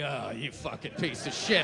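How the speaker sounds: low voiced muttering at the mirror; self-disgust. Hungover man to his own reflection, low disgusted growl. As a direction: sneer at yourself in the mirror. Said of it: "you looked up, you're like".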